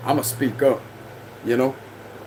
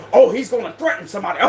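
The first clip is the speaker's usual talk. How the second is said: mocking accuser; 3 semitones higher, faster than usual. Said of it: "this is what they trying to do".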